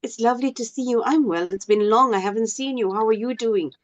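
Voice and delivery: sincere, engaged greeting; caring reply. Shown as a demonstration. Student stops to answer that person, sincere and caring. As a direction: show real interest in the other person. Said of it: "actually stop and answer that person".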